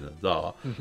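ordinary delivery

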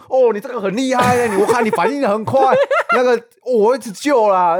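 put-on high, loud gushing old-man voice; old man praising the rider, hammed up high; imitating the old man. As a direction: praise like an impressed old uncle. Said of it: "我现在的口气就是他的口气".

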